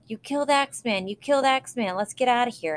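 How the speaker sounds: high, loud panicked yells; retold yelling as they run off; excited yelling. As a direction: shout it like kids fleeing in a panic. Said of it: "So we start yelling".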